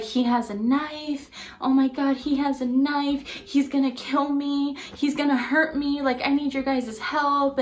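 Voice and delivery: retold urgent plea, mildly frantic; panicked pleading. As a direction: act out begging for rescue. Neighbor's panicked plea acted out.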